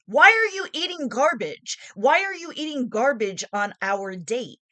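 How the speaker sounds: incredulous rant at a date; outraged mock rant. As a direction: scold him as if he's eating trash. Retelling her outraged reaction.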